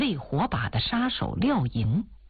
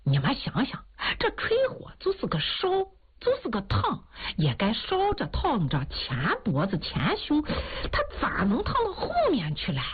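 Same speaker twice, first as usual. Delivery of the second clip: sly mocking old man, pitched up; old man ribbing his friend in front of everyone, mock gossip; teasing jab; 4 semitones higher than usual. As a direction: needle him with a grin in the voice. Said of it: "看哭老头儿就又调侃说".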